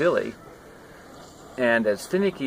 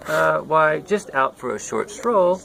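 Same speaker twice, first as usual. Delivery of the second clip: flustered rat; 5 semitones higher, 3 dB louder than usual. Acted. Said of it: "answered the surprised rat".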